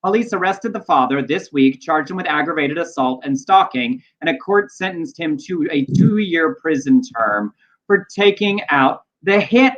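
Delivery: measured read-aloud with deliberate pauses; news story read. Real, not acted. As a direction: read the news item out, punching key phrases.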